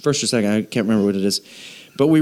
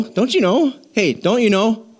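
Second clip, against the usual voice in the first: Midwest accent; 4 semitones higher than usual. Shown as a demonstration. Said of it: "bust out your Midwest accent".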